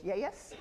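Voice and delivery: put-on country accent "yes" stretched into two syllables, ye-es; country accent "yes" drawn out as two beats. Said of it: "I couldn't say yes without two syllables".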